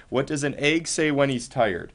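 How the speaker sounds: quiet repeat. Shown as a demonstration.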